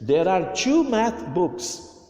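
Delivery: slow, careful English sentence for repeating; teacher modelling a sentence slowly; slow model reading. Shown as a demonstration. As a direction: read it out slowly so pupils copy. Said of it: "Olha a pronúncia".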